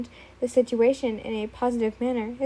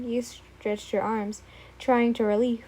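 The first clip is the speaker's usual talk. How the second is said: yawning. Real, not acted. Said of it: "I'm so sorry for the yawning".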